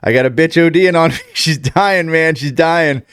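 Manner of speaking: urgent friend bursting in; panicked quote. Retold or imitated. Friend calling about an overdose, panicked. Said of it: "he's like".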